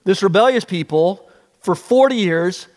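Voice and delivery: rising, fast, exasperated rant; exasperated Moses. Retold or imitated. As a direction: build it up as a fed-up leader. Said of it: "He thinks".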